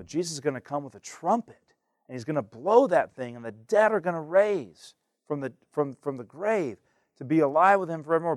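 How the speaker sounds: lively, varied delivery. Shown as a demonstration. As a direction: fluctuate with energy. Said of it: "Fluctuate your voice".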